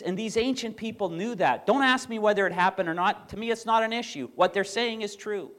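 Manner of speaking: a hint of Jordan Peterson's passionate insistence; imitating Jordan Peterson. Pastor mimics Peterson's lecture for the congregation, earnest and emphatic. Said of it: "that's how he talks".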